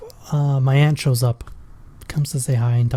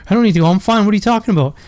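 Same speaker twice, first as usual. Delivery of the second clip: exasperated denial; 5 semitones higher, much faster than usual. Retold or imitated. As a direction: insist he's fine, pitching up in irritation. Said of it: "But I'm like".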